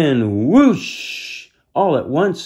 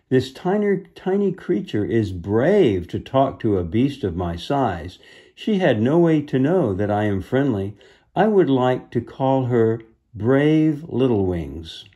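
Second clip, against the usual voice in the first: gravelly beast voice. Acted. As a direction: speak as a gentle giant. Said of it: "a deep, gravelly voice".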